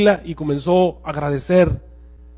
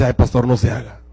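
a hint of a lower, teasing translator; lightly voiced translator, lower and knowing; 7 semitones lower than usual.

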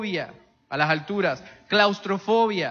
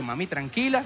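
soothing; 4 dB quieter than usual. Retold or imitated. Calming his screaming mother.

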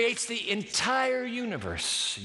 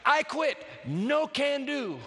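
pleading cry; 7 semitones higher, slower than usual. Retold or imitated. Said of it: "pleads with the cry".

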